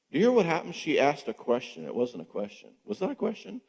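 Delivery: ordinary talk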